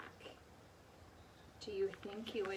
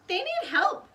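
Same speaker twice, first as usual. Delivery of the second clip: urgent; 11 semitones higher, 10 dB louder than usual. A narrator's reading. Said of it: "said Jack".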